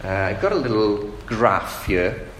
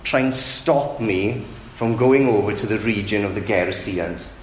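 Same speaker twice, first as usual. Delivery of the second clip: indignant rebuke. Acted. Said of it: "It's almost as if Jesus is saying".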